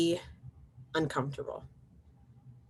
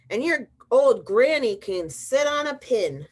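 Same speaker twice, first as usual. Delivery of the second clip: slow, louder jeering yell; 5 semitones higher, 6 dB louder than usual. Acted. Third little pig yelling an insult at the wolf, slow and loud. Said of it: "the third little pig yelled".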